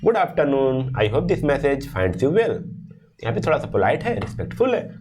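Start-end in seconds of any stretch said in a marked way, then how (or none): 0.1-2.6 slow, polite formal greeting; courteous formal read. Shown as a demonstration. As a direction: speak respectfully like an email. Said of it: "formal tone".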